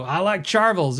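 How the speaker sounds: "Charvels" said CHAR-vuhls, imitating him; "Charvels" with weak second syllable; customer's odd pronunciation. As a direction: mimic him saying "Charvels" with a hard ch. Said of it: "he called them Charvels".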